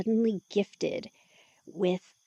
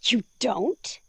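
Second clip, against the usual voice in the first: unvoiced, rising, astonished whisper; surprised whisper; 4 semitones higher, 3 dB louder than usual. Woman surprised he avoids other vampires, whispering. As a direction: breathe it out in disbelief.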